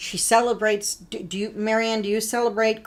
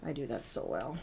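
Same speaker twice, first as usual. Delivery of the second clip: witch voice; 6 semitones lower, 12 dB quieter, faster than usual. Pretend. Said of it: "My witch voice".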